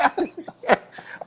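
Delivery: breathy unvoiced chuckle; silent laugh. Real, not acted. Laughing at his own trick. (risada sem voz)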